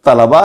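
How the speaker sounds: तलबा as ta-la-ba; correct pronunciation. Shown as a demonstration. Teacher repeating the right form, तलबा as ta-la-ba. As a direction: keep a vowel after ल in तलबा. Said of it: "इसका दुरुस्त तलफ़ुज़".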